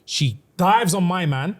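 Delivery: slow down and savour the gore; hushed intense telling. Real, not acted. Narrator relishing Nesta's kill, slow hushed intensity. Climax of the fight.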